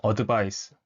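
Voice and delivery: advice read slowly, Konglish-style, syllable by syllable; 한국식 발음; Korean-style advice. Shown as a demonstration. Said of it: "보통 이것들을 보시면 이제".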